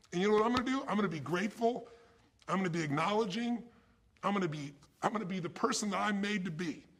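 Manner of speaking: loud, high, rallying resolve; rally the room; fired-up declaration. Real, not acted. Speaker declaring new resolve.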